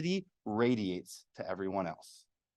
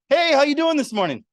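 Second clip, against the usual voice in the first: much higher and bright, bouncing hello; cheery greeting; 13 semitones higher, 7 dB louder than usual. Acted. Cheerful coworker greeting the sour colleague, high and bouncy. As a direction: greet them like a ray of sunshine.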